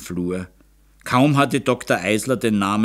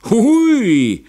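high, loud drawn-out "hui", sliding down; tired laughing exclamation; weary mocking whoop; 14 semitones higher, 8 dB louder than usual. A narrator's reading. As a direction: hoot it high and long, then let it drop. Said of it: "Graf Ecke lachte müde".

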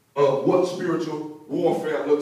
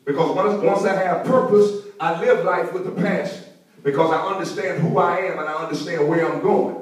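raised, emphatic sermon delivery; preaching; 5 semitones higher, 3 dB louder than usual. Real, not acted. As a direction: preach it with conviction to the congregation. Preaching with force to congregation.

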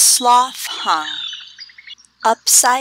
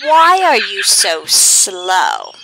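howler monkey voice; 5 dB louder than usual. Acted. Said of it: "the howler monkey asked".

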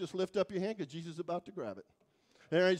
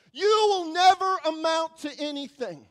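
loud, higher cutting verdict; harsh put-down; 6 semitones higher, 9 dB louder than usual. Retold or imitated. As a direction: slam them down, no mercy. Voices of the past accusing.

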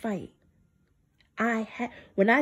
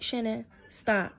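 hushed divine voice; 7 dB quieter than usual. Retold or imitated. God's voice quoted gently.

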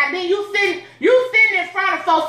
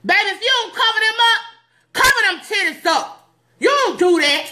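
scolding church mother; 5 semitones higher than usual. Acted.

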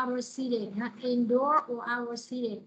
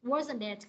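Wasn't it said with the pitch dropping on it; falling tag question. Shown as a demonstration. Teacher explaining a tag question, falling on it. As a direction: let it fall, you already know the answer. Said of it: "chữ it đi xuống".

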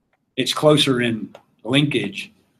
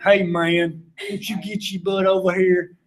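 mock a bad movie Southern accent; hammed-up fake Southern drawl; exaggerated movie Southern; 5 semitones higher, slower than usual. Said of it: "tries to do a Southern accent".

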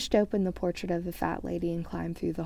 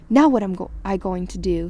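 shrill; 10 dB louder than usual. A narrator's reading. Hermione locked out of Gryffindor Tower, asking shrilly. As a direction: exclaim it shrilly, then ease down. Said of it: "she asked shrilly".

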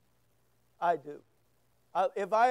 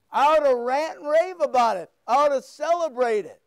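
enthusiastic raving; 2 semitones higher, 5 dB louder than usual. Acted. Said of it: "that means an enthusiastic yell".

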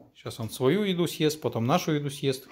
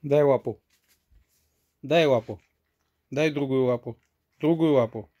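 commanding a dog; 6 dB louder than usual. Real, not acted.

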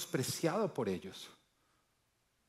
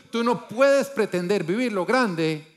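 loud, higher and slow, driving it home; fervent preaching; 6 semitones higher, 9 dB louder, slower than usual. Real, not acted. Preacher challenging listeners to grow, loud and slow. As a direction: proclaim it like a challenge.

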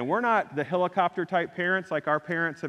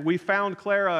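a slightly raised call outdoors; mild mock yell; 5 semitones higher than usual. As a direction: call the news out to the searchers. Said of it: "coming outside and yelling".

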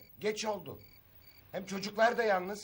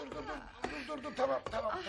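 soft, high placating murmur; calm him down in a hushed voice; urgent, softened pleading; hurried hushing; 7 semitones higher, 7 dB quieter than usual. Acted. Hushing the drunk man's outburst.

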